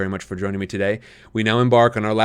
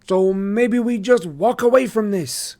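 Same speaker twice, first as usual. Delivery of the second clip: lightly voiced sly boy; 12 semitones higher, 6 dB louder, slower than usual. A narrator's reading. Marco voiced in story.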